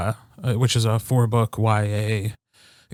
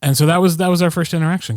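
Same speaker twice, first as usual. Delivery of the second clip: ordinary talk, nothing marked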